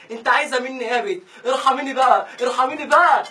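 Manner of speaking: loud fed-up begging; exasperated pleading. Acted. Man begging his clingy girlfriend, loud exasperated plea. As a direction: plead at her, worn out and loud.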